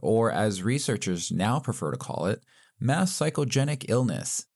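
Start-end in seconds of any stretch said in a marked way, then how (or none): 2.8-4.5 mock academic, pompous delivery; mock smart voice. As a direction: say it like a know-it-all. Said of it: "I'm trying to sound smart again".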